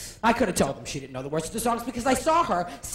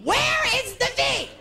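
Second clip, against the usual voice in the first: much higher slow puzzled question; higher, slower mock confusion; baffled; 12 semitones higher, slower than usual. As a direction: ask it genuinely confused. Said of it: "I said to my director".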